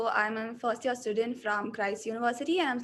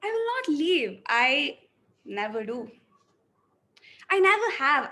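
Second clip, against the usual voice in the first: hopeless, resigned; 3 dB louder than usual. Shown as a demonstration. Acting student's depressed take of the lines. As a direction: say it like you've given up. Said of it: "let me go with the first one".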